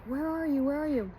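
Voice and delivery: high searching call, lightly acted; calling back. Dad calling out to find his son in the bush, searching call. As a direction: call out as if hunting for your son.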